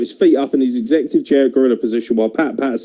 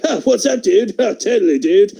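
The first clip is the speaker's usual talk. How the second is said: higher laid-back surfer bro voice; surfer dude; 6 semitones higher than usual. Retold or imitated. Young Miz greets everyone, mock surfer bro. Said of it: "So he's like".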